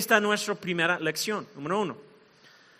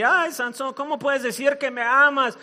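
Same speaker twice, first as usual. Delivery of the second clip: mock tearful pleading; hammed-up lovelorn complaint; crying; 3 semitones higher than usual. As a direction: plead in a slightly raised, whiny voice.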